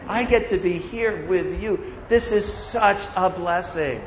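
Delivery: heartfelt gratitude. Retold or imitated. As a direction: hush it like a grateful confession. Retelling heartfelt words to friend.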